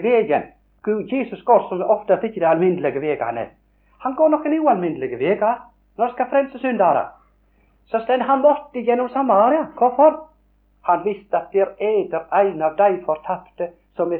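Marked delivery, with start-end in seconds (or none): 4.0-10.2 climbs high with growing fervour; rising fervour. Real, not acted. Preacher building fervour to the congregation. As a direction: lift the congregation with it.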